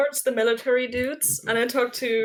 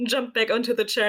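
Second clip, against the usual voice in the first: ordinary talk, nothing marked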